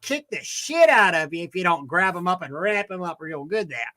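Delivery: put-on Australian accent. Diner explaining beef to his waiter, Australian accent. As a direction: tell it like an Aussie to his waiter. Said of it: "He was doing an Australian skit".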